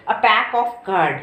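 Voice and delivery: teacher modelling the answer slowly; slow model answer. Shown as a demonstration. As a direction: say "A pack of card" very slowly, word by word. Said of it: "हम उसे क्या बोलेंगे?".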